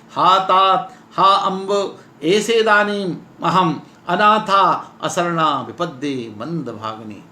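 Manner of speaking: drawn-out recited wail, falling away; lightly acted helpless despair; mock lament. Heroine's lament recited again.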